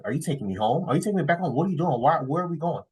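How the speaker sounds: high, rising-and-falling imitation of puzzled questions; confused girlfriend. Girlfriend asking if she is being taken home, mock confused. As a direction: mimic her mounting bewilderment. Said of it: "looking at me confused".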